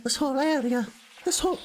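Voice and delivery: high-pitched attempt at a British accent; put-on British accent. Streamer fumbling for a character's accent, high British voice. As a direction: try an inner city British voice, pitched high. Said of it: "inner city British accent or something".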